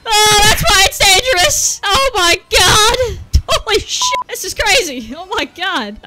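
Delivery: high, loud, slowed mock wail; mock shock. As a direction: overplay the shocked gasp. Mock dramatic reaction to chat.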